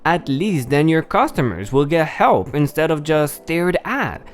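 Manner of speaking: put-on old lady voice. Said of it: "my old lady voice is bad".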